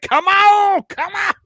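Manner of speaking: loud, high taunting call of a video game boss. Retold or imitated. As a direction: taunt the hero like a cocky boss.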